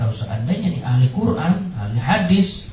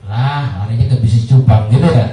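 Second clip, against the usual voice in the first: louder, laughing joke; laughing loudly at the teacher who quit for fish trading; 3 semitones lower, 9 dB louder than usual. Real, not acted. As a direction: crack up at the punchline. Joking about betta-fish business.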